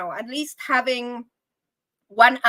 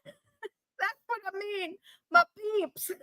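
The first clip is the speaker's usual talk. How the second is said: laughing; 7 semitones higher, 8 dB quieter, much slower than usual. Real, not acted. Laughing at own slip.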